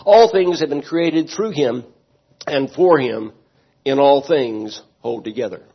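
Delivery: quick, lifted Bible reading; scripture reading. Shown as a demonstration. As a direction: read the passage out to the church. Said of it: "let's read the entire text".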